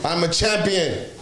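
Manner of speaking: lightly voiced Giannis claiming the title; a mild pretend champion brag; playing Giannis, first take. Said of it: "I'm just playing".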